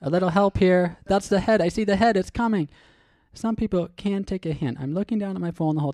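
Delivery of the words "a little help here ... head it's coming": a touch of panicked woman in labour; panicked stranger. Acted. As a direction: loudly play a frantic mom-to-be. Acted elevator stranger in labour.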